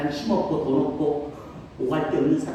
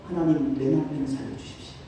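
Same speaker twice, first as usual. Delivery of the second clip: imitating a tearful prayer. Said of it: "막 오열을 해".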